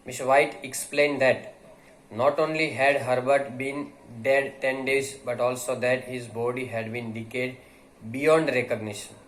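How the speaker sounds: reading the text aloud slowly for students; measured, unhurried read-aloud; slow story reading. Acted. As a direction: read each phrase slowly to the class.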